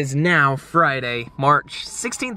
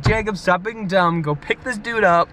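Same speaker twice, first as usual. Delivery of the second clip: higher-pitched, emphatic telling-off; mock scolding; 8 semitones higher, 4 dB louder than usual. God nudging him to pick up a stranger, scolding. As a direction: order firmly, as if fed up with foolishness.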